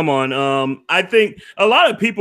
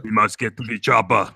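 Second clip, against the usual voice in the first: just a touch of the action hero; lightly voiced Arnold; 8 semitones lower, 3 dB quieter than usual. Streamer grants the chat's request, lightly voiced Arnold. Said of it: "You gotta do the bomb thing".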